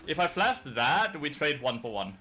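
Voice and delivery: drawn out, wondering aloud; slow disbelief. Real, not acted. Replaying missed flash.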